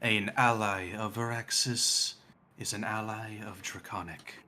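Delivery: slow, lightly voiced draconic god; measured and formal, unhurried; Null. Death god greets a non-draconic ally, slow and formal.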